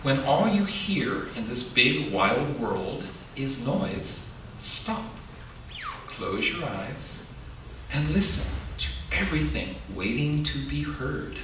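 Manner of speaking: slow, gentle picture-book reading; reading to children. A narrator's reading.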